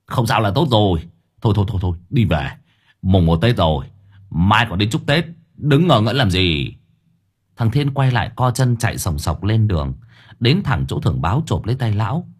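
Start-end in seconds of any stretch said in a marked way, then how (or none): 0.1-6.7 put-on old uncle grumbling at the boy to go home; old man nagging. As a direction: hurry the kid along, slowing at the end. Old man scolding gently.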